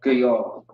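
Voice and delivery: GAYAL ending on the L; dropped final A. Shown as a demonstration. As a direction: say "Gayal" as guh-YAHL, no vowel after the L. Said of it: "Because the A drops off with the la".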